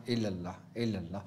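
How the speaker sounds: soft, low murmured chant; inward dhikr. Shown as a demonstration. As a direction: keep it hushed, as if reciting inwardly. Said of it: "तसव्वुर में करना". (दबी, नीची आवाज़ में ज़िक्र)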